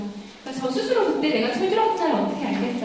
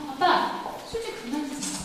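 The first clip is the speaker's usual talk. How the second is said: daughters nagging; 8 semitones higher, 5 dB quieter than usual. Retold or imitated. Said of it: "막 그러면서 잔소리를 해요".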